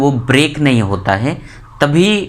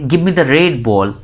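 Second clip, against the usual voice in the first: slow example sentence; much slower than usual. Shown as a demonstration. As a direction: Give me the red ball said very slowly. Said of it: "मगर जब हम बोलेंगे".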